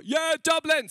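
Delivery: high, loud excited yell; rowdy crowd cheer. Acted. Dublin audience answering the comic, rowdy cheer. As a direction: roar it like a proud local crowd.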